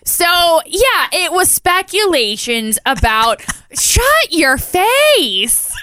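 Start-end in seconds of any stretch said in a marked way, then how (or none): 3.6-5.7 laughing shout. Real, not acted. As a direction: yell it while cracking up. Laughing at cohost's teasing.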